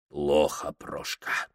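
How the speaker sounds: soft, voiceless, grim; grim hushed answer. Acted. Cherkess answering Prokhor's look, soft and grim. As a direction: barely breathe the bad news.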